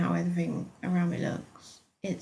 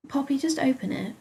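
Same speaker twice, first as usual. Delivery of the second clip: soothingly; 6 semitones higher than usual. A narrator's reading. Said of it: "she said soothingly".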